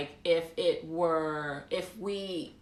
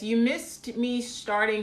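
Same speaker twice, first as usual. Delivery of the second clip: normal talking voice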